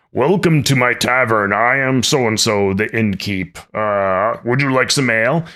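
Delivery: innkeeper voice. Acted. GM voicing the innkeeper to the players, lightly put-on tavern keeper voice. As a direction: greet the party as a friendly tavern keeper. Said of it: "I have adopted a voice that I now have to maintain".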